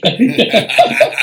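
real high burst of laughter. Real, not acted. Laughing at the punchline.

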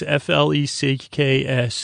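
letters said slowly, one at a time; spelled out. Shown as a demonstration.

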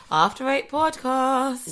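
drawn-out, high-pitched podcast name; high intro jingle. Shown as a demonstration. Host rehearsing the podcast intro with co-host, high and drawn out. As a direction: send the show name up high. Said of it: "You're meant to go high".

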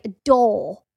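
"A door" said English, no r, long open vowel; southern English "door" without the r; English accent. Retold or imitated. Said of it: "Jude's like".

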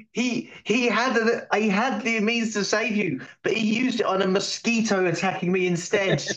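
whiny complaint. Acted. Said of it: "I was like".

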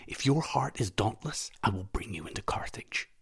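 secretive hushed whisper. Acted. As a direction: tempt him in a whisper. Conspiring aside by the lake.

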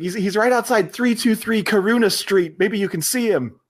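put-on high, fluttery elderly lady voice; mock panicked old lady; panicking old woman. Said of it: "this elderly woman who's just panicking".

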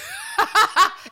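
high burst of laughter; laughing. Real, not acted. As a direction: break into a real laugh. Laughing at the excuse.

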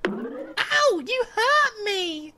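loud, high squeaky whine; tiny complaining voice. Acted. Talking wood complaining after the axe blow, tiny high voice. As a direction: complain in a drawn-out falsetto. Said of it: "complained the same tiny voice".

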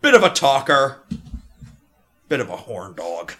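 loud, hearty dwarf rambling; jolly dwarf. Acted. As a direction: play the cheery old dwarf chatting. Dwarf recalling the lad.

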